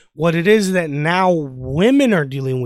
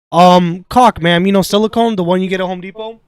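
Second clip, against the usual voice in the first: louder, spelled-out calm explanation; patient explanation; 6 dB louder than usual. Retold or imitated. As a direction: explain it to her loud and clear. Tech explaining to customer.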